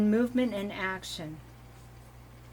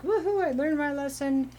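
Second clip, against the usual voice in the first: higher-pitched acted cheer; mock celebration; 7 semitones higher than usual. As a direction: cheer as if you just passed. Imagined cheer at finishing a lesson.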